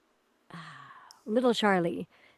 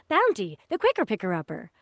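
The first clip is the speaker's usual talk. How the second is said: punchy announcer sell of "Bounty, the quicker picker-upper"; hyped ad read; 3 semitones higher, 7 dB louder than usual. Shown as a demonstration. Voice actor mimicking the produced commercial read of "Bounty, the quicker picker-upper". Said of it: "what they end up having you do is".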